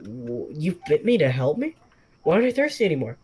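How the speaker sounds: bewildered questions. Acted. Stunned man quizzes the talking snake, fast and rising. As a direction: rattle them off in disbelief.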